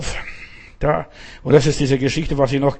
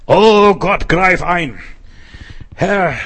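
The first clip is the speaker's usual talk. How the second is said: pleading cry; 2 semitones higher, 4 dB louder, much slower than usual. Acted. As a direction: cry out to God to step in. Preacher reads a psalm cry.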